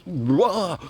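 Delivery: high mock outburst; acted-out wah of alarm; imitated startled yell. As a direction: burst out like a guard jolted into action. Guard suddenly reacts.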